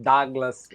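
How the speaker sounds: Douglas arrastado, com "a" aberto; pronúncia aportuguesada. Retold or imitated. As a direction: diga Douglas devagar, como "Dáglas". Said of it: "um sotaque tão britânico". (Douglas virando "Dáglas", bem lento)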